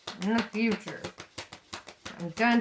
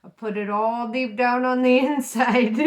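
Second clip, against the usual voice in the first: laughing retort; 7 dB louder than usual. Retold or imitated. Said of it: "And it's like".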